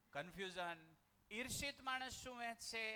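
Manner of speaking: ordinary talk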